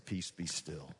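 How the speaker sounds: quiet the storm with a soft, steady word; calming command. Acted.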